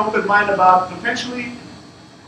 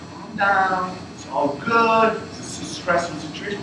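slow, soothing reassurance, retold; 4 dB quieter than usual. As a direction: talk someone down from panic. Retells soothing a panicking candidate.

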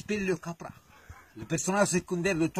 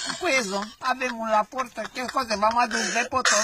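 lightly raised, sweeter mother-goat imitation; 3 semitones higher than usual. Wolf with sharpened tongue fakes the goat mother, pitched up a little.

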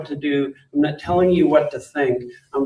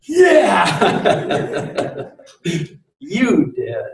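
higher, teasing laugh of the daughter catching her dad; 3 semitones higher, much slower than usual. Retold or imitated. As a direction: toss it back at dad with a laugh. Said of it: "all of a sudden she goes".

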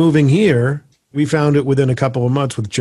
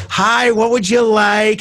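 much higher, slow, put-on sing-song greeting; sweet hostess voice; 11 semitones higher, slower than usual. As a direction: greet the customer as the pizzeria mother. Pizzeria wife greeting customers.

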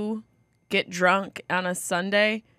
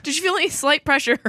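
breaking into laughter mid-question; can't keep a straight face, giggling through; laughing; 6 semitones higher than usual. Real, not acted. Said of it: "I tried to say it without laughing".

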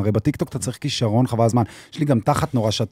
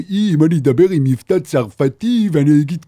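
mock French accent; 4 semitones higher than usual. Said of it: "ופתאום אומר".

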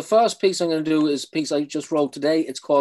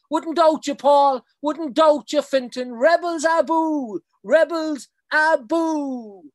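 put-on much higher, calling out in a Cork accent; strong Cork accent; 13 semitones higher, 5 dB louder, slower than usual. Poet saluting Paul and Fintan with a Cork cheer. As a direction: cheer them on like a Cork fan. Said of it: "it's in a very strong Cork accent".

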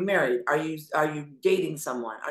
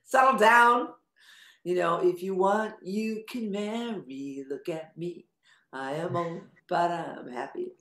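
mock parent advice; slower than usual. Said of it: "If you were my son, I'd be going".

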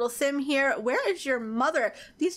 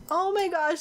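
higher, excited oh my gosh; excited exclaim; 6 semitones higher than usual. Real, not acted. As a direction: burst out with delight. Awed reaction to the park.

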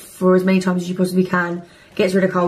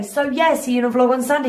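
mocking repetition; 5 semitones higher, faster than usual. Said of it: "some people are like".

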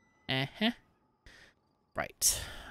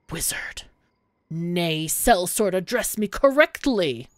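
a haughty mage, louder as he scolds; indignant mage; 5 dB louder than usual. Acted. Mage scolds the sellsword for the wrong title, lightly voiced and haughty. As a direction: scold the sellsword's bad manners.

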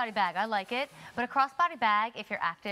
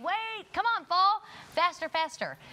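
higher, pleading mock urging; mock urging fall to hurry; impatient; 7 semitones higher than usual. Quoting impatient shoppers.

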